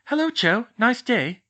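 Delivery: bright, high call across the room. A narrator's reading. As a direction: call out a cheerful greeting. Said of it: "Hermione called".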